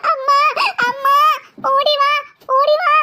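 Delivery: urgent, scared cry; frightened calling out. Acted. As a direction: call out for rescue in mock panic. Frightened girl calls mother again.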